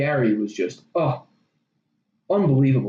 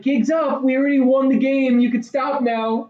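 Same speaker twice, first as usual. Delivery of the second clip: mock smug gamers; 8 semitones higher, slower than usual. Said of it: "They're like".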